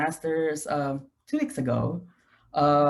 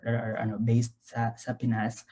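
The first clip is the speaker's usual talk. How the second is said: Taglish; 3 semitones lower, 4 dB quieter than usual. Real, not acted. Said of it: "is it okay if I do it in Taglish".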